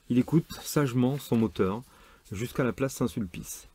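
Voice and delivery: measured novel reading with lightly acted dialogue; story reading. A narrator's reading. Reader sharing a novel about a church wedding, narration style. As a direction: read the excerpt aloud, lightly voicing the exchanges. Reads a novel excerpt aloud.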